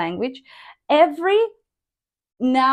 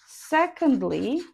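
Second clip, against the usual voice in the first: secondly said slowly with a gentle rise; slow drill reading; 3 dB quieter than usual. Shown as a demonstration. Teacher drilling one word for the class, slow and rising. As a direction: stretch out secondly, rising softly. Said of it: "try to sound like not rising and not falling".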